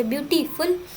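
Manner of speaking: ब्यूटीफुल in two beats, "beauty, ful"; split into syllables. Shown as a demonstration. Teacher repeating the example, ब्यूटीफुल parted as beauty, ful. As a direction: set ful slightly apart from beauty in ब्यूटीफुल. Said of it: "तोड़ना पड़ता है बोलने के लिए".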